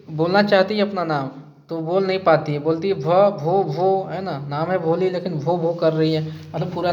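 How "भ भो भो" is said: put-on like a shy girl stuck on her own name; mock stammer. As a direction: stammer on the first sound of भोली, भ- भो- भो. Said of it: "वो stammer कर रही है".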